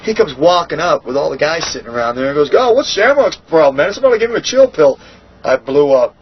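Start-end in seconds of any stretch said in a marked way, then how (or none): 2.5-5.0 mocking taunt. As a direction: sneer it out like the guy mocking Shamrock in front of everyone. Imitating the taunt at the gate.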